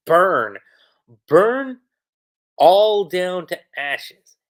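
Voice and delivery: loud, gleeful villain's roar, slow on the last words; cackling villain. Retold or imitated. Reviewer voicing the dragon burning the town, loud mock villain roar. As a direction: howl it like a fire demon reveling in destruction. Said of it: "like, cackling away".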